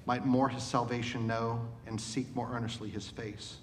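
measured, solemn reading of a hymn poem; poem recitation. Acted.

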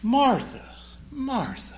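gentle teacher calming down his hostess. Retold or imitated. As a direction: settle a frazzled friend gently. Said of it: "It's a way of saying, "Calm down, chill out, relax".

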